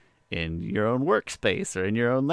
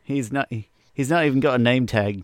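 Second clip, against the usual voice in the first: put-on poor British accent; 3 semitones higher, 3 dB louder than usual. Podcaster slipping a film quote to co-host, poor British accent. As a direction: attempt at Michael Caine's British accent. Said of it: "you're speaking in, in some poor accent, British".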